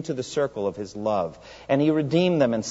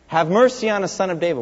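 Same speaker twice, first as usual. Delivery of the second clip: mild imitated plea, raised in pitch; retold crying out; 5 semitones higher, 3 dB louder than usual. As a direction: call it higher, as if after someone walking by. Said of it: "they cry out".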